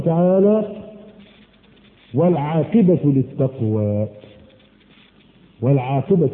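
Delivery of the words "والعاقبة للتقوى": drawn-out solemn verse; slow solemn recitation. Acted. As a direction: say the verse slowly and reverently. Verse quoted slowly.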